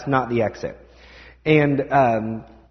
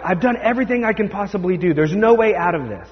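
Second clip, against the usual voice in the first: put-on fast, higher whine of a frustrated kid; exasperated kid; 5 semitones higher than usual. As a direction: rush it out like a kid who has tried everything. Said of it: "where they're like".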